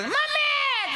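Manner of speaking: put-on high wailing child's call; a child's high cry for mummy. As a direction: wail for mummy like a fallen toddler. Child calling mother after falling.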